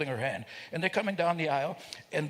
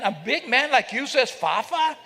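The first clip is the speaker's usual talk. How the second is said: laughing; 8 semitones higher, 6 dB louder than usual. Real, not acted. Teasing audience member, laughing.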